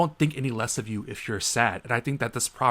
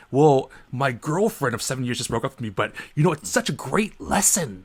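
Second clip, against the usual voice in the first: mock forced cheer; 2 semitones higher than usual. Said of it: "He's all like".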